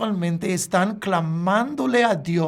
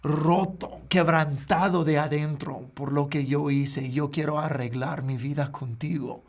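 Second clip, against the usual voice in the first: sincere, broken prayer; 3 semitones lower than usual. Retold or imitated. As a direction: pray from a broken heart, gently. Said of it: "El otro es". (oración sincera y quebrantada, cada vez más suave)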